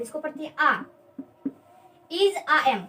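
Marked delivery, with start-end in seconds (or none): 0.6-0.8 "आ" as a long open vowel, no E sound; silent final E. Shown as a demonstration. Teacher explaining the E is not pronounced, pronunciation demo. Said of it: "इस ई का pronunciation नहीं करते". 2.1-2.8 "इज, आ, एम" as separate model words; pronunciation drill. Shown as a demonstration. Teacher modelling three helping verbs for students, pronunciation drill. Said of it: "क्या पढ़ते हैं".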